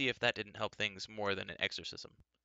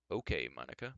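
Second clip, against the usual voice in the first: lower, friendly reassuring tone; melodious and friendly; 7 semitones lower than usual. A narrator's reading. Wizard soothing a nervous client, melodious and friendly. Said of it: "trying to sound as melodious and friendly".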